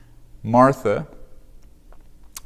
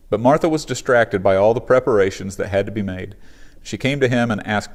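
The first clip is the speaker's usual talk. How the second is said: louder, measured Bible reading to the congregation; scripture reading; 3 dB louder than usual. Acted. Pastor reading Luke to the congregation, steady scripture reading. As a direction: read the passage out clearly, like a lectern reading. Reads the scripture passage aloud.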